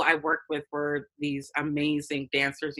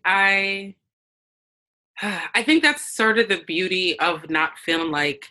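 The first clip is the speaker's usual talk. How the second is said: after sipping fizzy water. Real, not acted. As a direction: voice just after a fizzy sip. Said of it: "I'm drinking this bubbly water and it's like pop".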